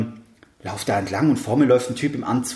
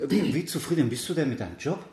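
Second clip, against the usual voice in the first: put-on a light Eastern European accent, said quieter; hint of an Eastern European accent in a quiet imitation; imitating his accent; 7 dB quieter than usual. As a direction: mimic the stranger's Eastern European accent, softly. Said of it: "Was jetzt auf Hochdeutsch".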